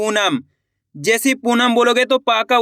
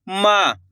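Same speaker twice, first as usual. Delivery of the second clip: "माँ" with its vowel held long; drawn-out vowel; 2 semitones lower, much slower than usual. Shown as a demonstration. Teacher showing the stretched pronunciation, "माँ" with lengthened vowel. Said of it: "माँ का उच्चारण खींच कर आ रहा है".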